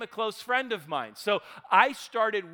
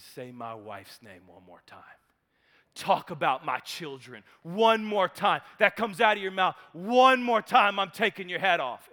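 mock threat; 3 semitones lower than usual. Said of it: "And he says".

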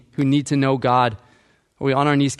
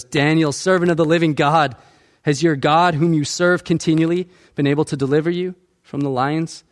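anguished cry; 3 semitones higher than usual. Retold or imitated. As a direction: call down to Daniel with mild mock anguish. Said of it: "he cries out in anguish".

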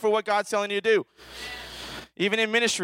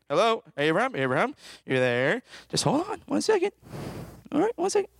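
a busy father putting someone on hold; playful voice of a distracted God; God as busy dad; 3 semitones higher than usual. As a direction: pitch climbs high, distracted brush-off.

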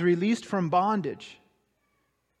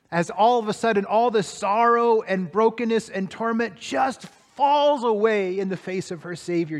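ordinary talk

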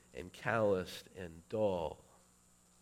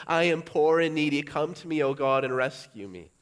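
high, loud cry to God; loud plea; 6 semitones higher, 11 dB louder than usual. Retold or imitated. Psalmist begging God to come, loud and high. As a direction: beg for rescue out loud. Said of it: "Or are we with the psalmist?".

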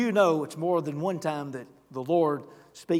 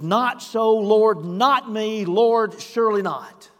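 raised, higher pleading refusal; mock protest; 4 semitones higher, 7 dB louder, much slower than usual. Believers refusing the Lord's direction, raised protest. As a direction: plead your way out, loud and high. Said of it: "first response often is".

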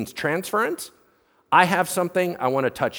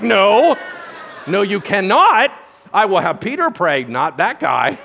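mock panic; 3 semitones higher, 5 dB louder than usual. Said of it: "they're like".

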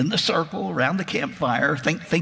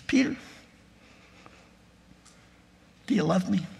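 higher, lightly smiling ask; Jesus asking Peter with a hint of a smile, higher; gentle smiling question; 5 semitones higher, 3 dB quieter, faster than usual. A narrator's reading. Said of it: "a little smile on his face".

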